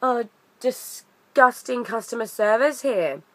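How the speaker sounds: slow, sneering aside to her mother; a disdainful complaint meant to be overheard; mock snooty daughter; snide retold remark. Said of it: "she's like".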